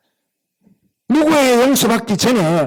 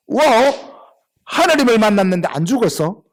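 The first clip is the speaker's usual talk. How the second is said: amazed exclamation; 3 semitones higher than usual. Acted. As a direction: act out a mildly stunned realisation. Jacob realises he survived meeting God.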